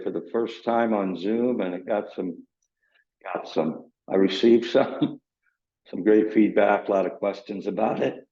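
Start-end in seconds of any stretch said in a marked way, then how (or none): 5.9-8.3 groggy just-woke-up voice; morning voice. Real, not acted. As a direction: speak with a rough morning voice. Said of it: "my morning voice going".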